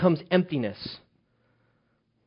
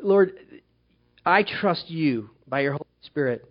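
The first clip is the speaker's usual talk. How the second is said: closing prayer. Acted. Pastor praying over the church, earnest and unhurried. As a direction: hush the room and pray sincerely.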